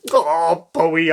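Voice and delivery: happy relieved cry; cried happily. Acted. Girl finding her dog safe, happy cry. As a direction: glad exclamation. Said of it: "I cried happily".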